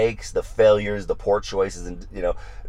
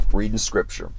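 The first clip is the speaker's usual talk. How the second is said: ordinary talk, nothing marked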